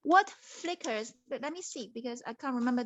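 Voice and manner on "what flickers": slow mysterious riddle start; slow riddle reading. Acted. Princess posing the second riddle, slow and mysterious. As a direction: drag out the riddle's first words. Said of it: "the second question".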